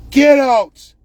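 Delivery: mock shout. Official ordering a citizen out, mock shout. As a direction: throw them out with a yell. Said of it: "I was told".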